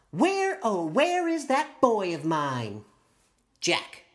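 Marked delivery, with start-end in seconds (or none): 0.1-2.8 calling mom. Acted. Mom calling for her son.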